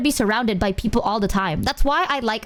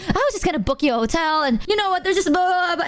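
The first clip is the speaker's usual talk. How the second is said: higher, quick mock babble; imitated flustered rambling; 7 semitones higher, faster than usual. Imitating friend explaining the hotel plan, flustered babble.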